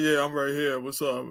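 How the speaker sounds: very low, irritated, mad-sounding mutter. Teasing the other speaker about always sounding mad, mimicking him; imitating Max sounding mad. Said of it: "Because you'd be like".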